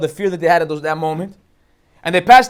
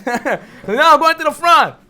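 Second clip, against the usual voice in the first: laughing insistence; 4 semitones higher, slower than usual. Acted.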